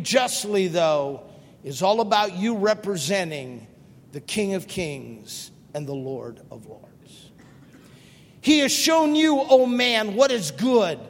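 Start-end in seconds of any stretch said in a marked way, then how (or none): 4.1-7.3 hushed, unvoiced whisper; reverent whisper. Real, not acted. Preacher naming the King of Kings, whispered. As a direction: breathe it in awe.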